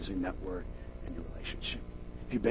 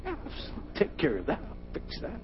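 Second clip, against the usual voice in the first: arrogant, cocky; 10 semitones higher, slower than usual. Retold or imitated. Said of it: "in my arrogant, cocky way".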